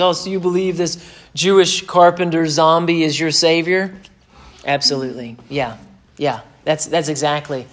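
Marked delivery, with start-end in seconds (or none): 0.0-4.0 imitating a scoffer's incredulous question; mocking skeptic. The world mocking a believer's faith, imitated mockery. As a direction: lightly put on a mocker's voice. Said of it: "you hear them mock things".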